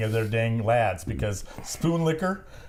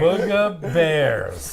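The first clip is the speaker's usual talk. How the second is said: savoring the name; 4 dB louder, much slower than usual. Acted. Repeating the funny name slowly.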